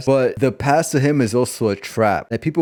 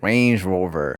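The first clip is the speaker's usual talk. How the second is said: imitated southern accent, pitched lower; 4 semitones lower, slower than usual. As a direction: lightly put on a low southern drawl. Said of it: "put off this southern type of accent".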